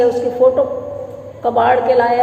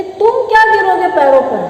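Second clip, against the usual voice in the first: higher, emphatic mock deference; bitter sarcastic taunt; 4 semitones higher than usual. Wife mocks husband as master and king, bitterly sarcastic. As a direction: needle him with his own superiority.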